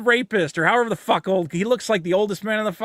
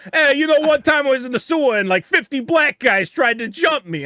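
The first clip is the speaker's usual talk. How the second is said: put-on old guy voice; 5 semitones higher than usual. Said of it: "white guy with the beret who's going".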